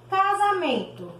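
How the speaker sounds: Casamento said syllable by syllable, high start. Shown as a demonstration. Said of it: "Batemos quatro vezes a palma".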